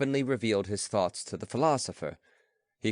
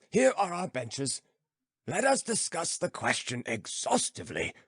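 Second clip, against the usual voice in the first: lightly voiced philosopher, higher and musing; old philosopher; 6 semitones higher than usual. Philosopher musing to his friend, lightly voiced. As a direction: ponder aloud, slowing on stone still.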